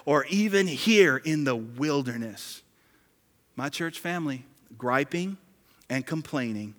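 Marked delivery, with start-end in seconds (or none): 0.1-2.6 wailing. Retold or imitated. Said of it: "they wailed".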